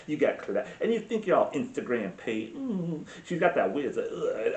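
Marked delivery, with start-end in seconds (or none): 0.1-3.0 put-on twang mixed with Valley Girl; Valley Girl with a Southern twang; mock twangy Valley Girl. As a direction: imitate a twangy California college girl. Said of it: "A twang with, like, a college".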